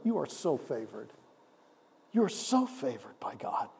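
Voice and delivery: breathy whisper of favor over them; preacher whispers that they are favored by God; whispered blessing. Acted. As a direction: whisper it tenderly to the congregation. Preacher speaks blessing softly.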